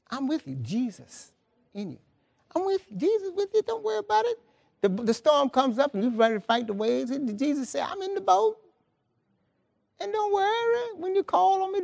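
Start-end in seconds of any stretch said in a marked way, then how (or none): 0.1-4.4 soft, high voice soothing a worrier; voiced divine comfort, high and soft; gentle reassurance. Jesus voiced reassuring the worried believer. 7.9-11.8 calm reassurance. Acted. Jesus voiced calming storm-tossed followers.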